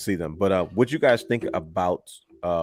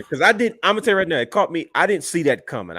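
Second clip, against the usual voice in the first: emphatic surprise; 7 semitones higher, 5 dB louder than usual. Real, not acted. Stresses own surprise at the return.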